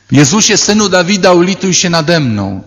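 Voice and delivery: mock cry out. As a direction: call out begging for mercy. Blind man cries to Jesus. (lekko udawane wołanie o litość)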